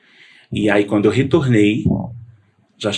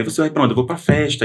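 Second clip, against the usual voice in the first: higher-pitched retelling of mother and son; retold back-and-forth; 5 semitones higher than usual. Mother questioning her son as he leaves, lightly acted back-and-forth. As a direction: lightly act out both sides of the exchange.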